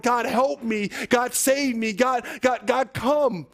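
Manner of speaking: preacher's acted cry for rescue; crying out to God. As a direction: plead urgently for God's help. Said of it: "you cry out to the Lord".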